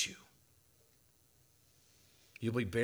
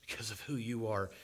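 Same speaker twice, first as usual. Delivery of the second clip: softer, who falling away; a quiet falling echo of the line; 5 dB quieter than usual. Acted. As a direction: drop the repeat to a hush on who. Repeated line, two readings.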